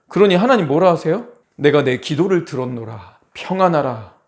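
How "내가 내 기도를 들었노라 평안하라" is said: low, measured voice of God; imitated solemn reassurance; calm divine voice. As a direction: speak as a reassuring God, pitched down. Imagines God calmly granting prayer.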